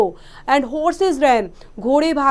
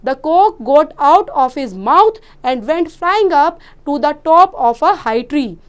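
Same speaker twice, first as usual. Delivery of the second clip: slow, deliberate classroom reading; story read aloud; 3 dB louder, much slower than usual. Acted. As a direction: read each phrase slowly and distinctly to children. (बच्चों के लिए धीमा कहानी-पाठ)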